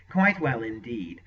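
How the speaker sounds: a touch of self-satisfaction; smug. Acted. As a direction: sorcerer boasting to his lord, mildly smug. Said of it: "Rabadath answered smugly".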